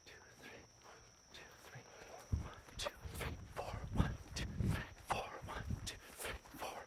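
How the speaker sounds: very soft whispered rhythmic count; breathy counting. Real, not acted. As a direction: count on the breath, keeping the running cadence. Coach demonstrating a breathing count.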